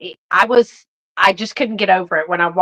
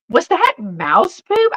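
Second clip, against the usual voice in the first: shocked question; 12 semitones higher, slower than usual. Retold or imitated. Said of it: "she goes".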